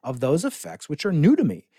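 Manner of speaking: reading Galileo's words. Retold or imitated. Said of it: "he says".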